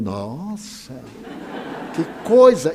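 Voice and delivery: retold amused wonder; laughing amazement. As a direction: marvel and laugh at once. Reacts to the doctor's news.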